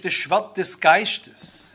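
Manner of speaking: „das Schwert des Geistes“ leicht und verspielt, langsam, mit Anstieg auf „Geistes“; beiläufig wie eine Floskel, gedehnt; spielerisch. Shown as a demonstration. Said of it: "man sagt immer so ein bisschen spielerisch". (leichthin gesagt, „Geistes“ hebt sich fragend)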